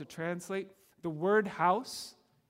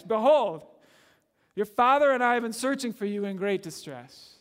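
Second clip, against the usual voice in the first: upset mom; 3 semitones higher, 7 dB louder than usual. Retold or imitated. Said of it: "She's hurt. She's probably upset".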